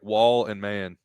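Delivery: "wall and man", the name split into two words; name pronunciation demo. Shown as a demonstration. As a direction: slowly spell out the sounds as "wall and man". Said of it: "that's how you say it?".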